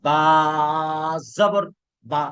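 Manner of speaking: crisp short vowel on the closing বা; short final vowel. Shown as a demonstration. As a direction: end বা short, without dragging it. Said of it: "টানা যাবে না। যেমন আমি বলি".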